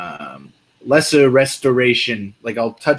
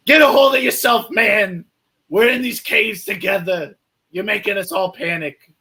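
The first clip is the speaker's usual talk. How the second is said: stern shout; 8 semitones higher than usual. Acted. Cleric grabs panicking dwarf by the scruff, shouting. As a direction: shake him and yell at him to calm down. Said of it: "I'm like".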